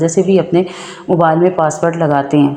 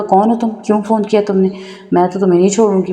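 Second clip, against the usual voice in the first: retold angry challenge; 2 semitones higher than usual. Wife confronting husband's prank caller, angrily. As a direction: confront the caller, voice pitched up and fast. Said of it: "تو مجھے بڑا غصہ آیا اس پہ".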